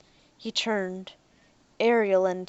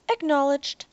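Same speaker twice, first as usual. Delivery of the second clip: robot voice; 6 semitones higher, 3 dB louder than usual. Acted. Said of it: "said the hunter".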